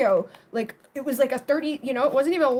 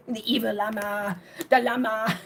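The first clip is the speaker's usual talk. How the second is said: lowered, laughing mock spooky voice; hammed-up evil llama. Retelling the llama joke to viewers, mock spooky voice. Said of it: "I kept doing it".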